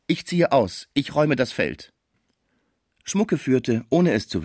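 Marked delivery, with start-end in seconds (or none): 0.1-1.9 raised pitch, a touch of dismay; horrified. A narrator's reading. Old musician surrenders his home, mildly horrified. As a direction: give up in mild horror, higher voice. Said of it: "rief Schmucke entsetzt".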